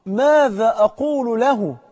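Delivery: loud, high, very slow retold cry; distant dying cry. Burning man dreading standing before God, drawn-out far-off cry. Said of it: "فقال بصوت بقى جاي من بعيد".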